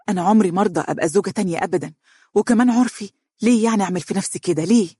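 put-on anxious girl refusing a secret marriage; nervous.

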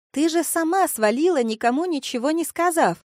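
high, loud shout over club music. A narrator's reading. Vika yelling at Kristina over loud music. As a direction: yell to be heard over the noise. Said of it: "перекрикивала музыку Вика".

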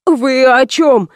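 slow, shaky frightened question; host frightened by the bandits; trembling voice. A narrator's reading. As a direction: ask it scared, hardly daring. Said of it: "дрожащим голосом произнёс".

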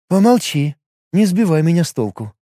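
a brisk healer setting things straight; Liga's voice. Acted.

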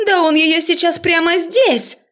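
high, shocked exclaim; scandalised cry. A narrator's reading. Student crying out at the couple. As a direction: gasp it out scandalised.

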